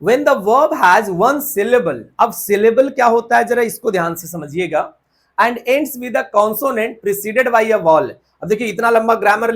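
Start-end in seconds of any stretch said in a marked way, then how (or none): 0.0-2.0 reading the rule out slowly, word by word; teacher dictating a rule. Shown as a demonstration. 5.4-8.1 reading the rule out slowly, word by word; teacher dictating a rule. Shown as a demonstration.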